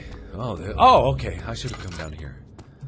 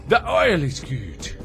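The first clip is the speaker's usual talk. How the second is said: louder, higher, slow and stretched; silly high declaration; 7 semitones higher, 9 dB louder, much slower than usual. Pretend. Player who likes oil, silly high declaration. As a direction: draw it out loudly in a playful high voice. Playful repeat about liking oil.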